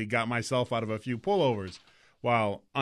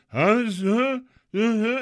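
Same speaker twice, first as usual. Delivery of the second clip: mock drunk stammering, higher; 8 semitones higher, 4 dB louder, much slower than usual. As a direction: fumble the words like a drunk. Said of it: "And then it comes".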